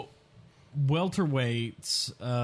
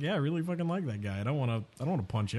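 Askren impression; 5 dB quieter, much faster than usual. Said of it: "He was just like".

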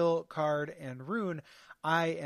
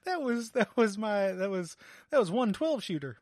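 cowboy voice; 3 semitones higher than usual. Acted. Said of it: "Cowboy Voice Week".

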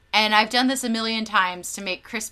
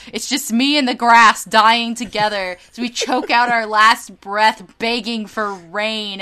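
melodramatic lament; 7 dB louder than usual. Retold or imitated. Answering Australian friends, a hammed-up tragic lament. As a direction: play the dying martyr in the heat. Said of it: "and I'm like".

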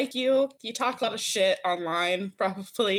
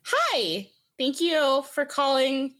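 bright customer-service phone voice, a bit slow; the polite voice you answer calls with; 3 semitones higher than usual. Shown as a demonstration. Asked on the podcast, she demos her phone voice. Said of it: "can we hear it?".

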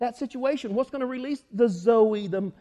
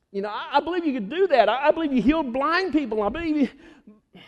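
raised, fervent pleading; emotional, pitched-up avowal; earnest insistence; 5 semitones higher, 3 dB louder than usual. Acted. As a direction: insist on it as the desperate father. Acting the father's emotional insistence.

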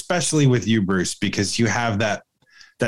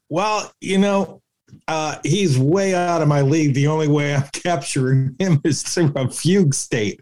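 mock smitten lady; 4 semitones higher than usual. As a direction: play the dazzled woman, lightly hammed. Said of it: "you're like".

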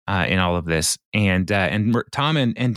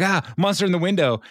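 mock freak-out; 9 semitones higher, faster than usual. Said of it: "he j-, freaks out".

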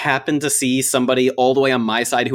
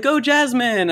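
retold cheer; 12 semitones higher, slower than usual. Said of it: "people would yell back".

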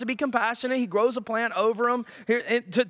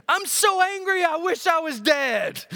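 sulky Jonah; 6 semitones higher than usual. Acted. Jonah sulking to God.

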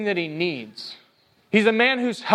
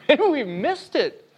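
sheepish maybe; 7 semitones higher than usual. Shown as a demonstration. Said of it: "Not maybe, we missed it".

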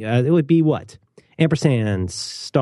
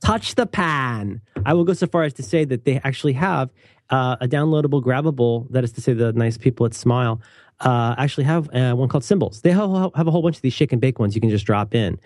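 infomercial voice. Acted. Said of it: "Bob Odenkirk infomercial voice".

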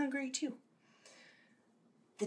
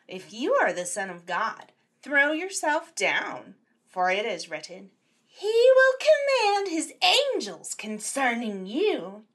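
wheedling, rising devil voice; tempting devil; 4 dB louder than usual. Acted. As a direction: tempt him slyly.

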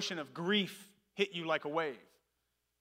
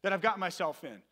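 raised-pitch mock plea for help; half-hearted pleading yell, slightly higher; retold yelling; 3 semitones higher than usual. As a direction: imitate someone calling up from a hole. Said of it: "And the guy's yelling".

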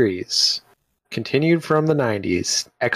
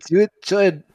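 Scottish Palpatine; 6 semitones higher than usual. Retold or imitated. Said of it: "in a Scottish accent".

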